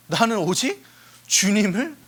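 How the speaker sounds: deliberate, phrase-by-phrase declaration; acted devout confession; confession of trust. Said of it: "의지의 신뢰의 고백을 해요".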